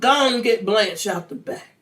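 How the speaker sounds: put-on loud drunken demand; drunk man. Drunk husband ordering the checker about, drunken demand. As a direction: slur it loudly like an angry drunk. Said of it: "He's all drunk".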